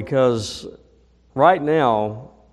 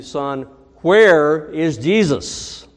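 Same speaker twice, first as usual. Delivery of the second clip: slow, stern and louder; 3 semitones higher, 6 dB louder, slower than usual. Retold or imitated. Headmaster demanding an answer again, slow and stern. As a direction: press the boy sternly, word by word. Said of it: "with a more stern tone".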